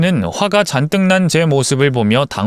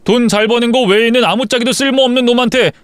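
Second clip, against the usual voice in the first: furious husband; 8 semitones higher than usual. Acted. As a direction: throw her own contempt back at her, raging. Husband furious at lying wife.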